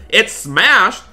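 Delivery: loud, high cry of disbelief; dismayed shout; shocked outburst. Acted. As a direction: burst out in alarm at the breakage. Discovers the customer's PC is broken.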